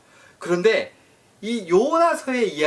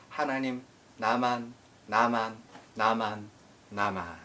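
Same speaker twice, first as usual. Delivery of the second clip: low, soft, petulant 나만 repeated; low sulky whine; 9 semitones lower, 8 dB quieter than usual. Retold or imitated. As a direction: mutter 나만 like a spoiled child, lower and softer each time. 완악한 백성의 기도 흉내. (낮고 작게 투정하듯 나만 반복)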